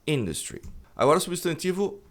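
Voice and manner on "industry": INDUSTRY stressed on its first syllable, lower; INDUSTRY, correctly front-stressed; correct English industry. Shown as a demonstration. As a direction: say "industry" as IN-dus-tree. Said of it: "E não é industry".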